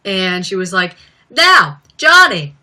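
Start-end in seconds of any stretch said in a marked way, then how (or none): 1.3-2.6 higher, louder mock host. Vlogger imitating the host addressing Johnny Depp, louder. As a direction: lean in like a gushing interviewer.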